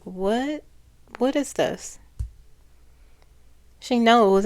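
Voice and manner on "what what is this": mildly higher-pitched disbelief, imitating her; retold shock. Channeler relaying her shock at the president, mock disbelief. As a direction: act out her baffled shock, lightly. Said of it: "She's shocked".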